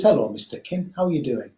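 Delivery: lightly voiced Northeast English greeting; a hint of a Northeast English accent. Buddha greeting a king he meets, light Northeast English accent. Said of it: "in a Northeast English accent".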